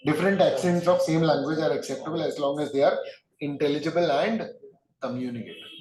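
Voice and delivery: slow, spaced dictation for students to write down. Acted. Teacher slowly dictating notes to his students. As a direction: read each phrase out slowly so the class can note it.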